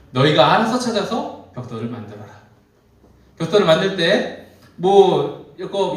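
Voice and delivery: firm, emphatic taskmaster's orders; acted harsh orders. Pharaoh's side ordering Israelites to make bricks, acted harsh orders. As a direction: lay down punishing orders, lightly acted.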